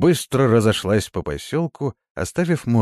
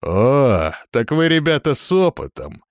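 loud, higher approving shout of delight; approving exclamation; 6 semitones higher, 5 dB louder than usual. A narrator's reading. Thug impressed by Murana's crew, loudly approving. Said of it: "одобрительно воскликнул Вейча".

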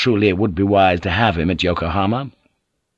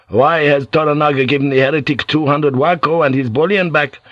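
a priest's voice pitched higher, anxious and pressing; worried priest; 5 semitones higher than usual. Acted. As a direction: fret aloud about the heretic, a hint raised. Alvito voiced higher, agitated.

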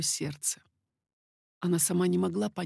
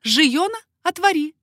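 much higher, louder call; 10 semitones higher, 9 dB louder than usual. A narrator's reading. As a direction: call the maid to open. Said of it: "сказала Маргарита".

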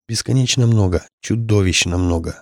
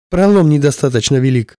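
higher, louder alarm; desperate shout; 5 semitones higher, 4 dB louder than usual. Acted. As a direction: yell it in alarm. Pilot in panic.

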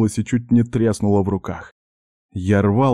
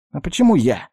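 higher, indignant self-defence; defensive exclamation; 7 semitones higher than usual. Acted. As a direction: push back the blame. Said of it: "защищаясь, воскликнул первый голос".

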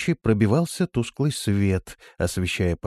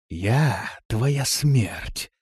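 very slow, mocking sinister voice; dark mockery; 2 semitones higher, much slower than usual. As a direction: savor each word like death itself. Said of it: "полный мрачной насмешки". (мрачная насмешка)

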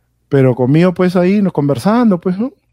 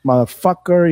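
slow, mildly raised threatening yell; retold shout; slower than usual. Inmate yelling at him from afar, retold shout. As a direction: imitate a menacing challenge, stretched out slowly. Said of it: "Me empieza a gritar que".

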